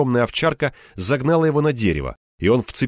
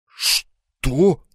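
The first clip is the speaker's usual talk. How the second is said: bewildered; 3 semitones higher than usual. Acted. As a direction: blurt it out confused. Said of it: "растерялся Верёвкин".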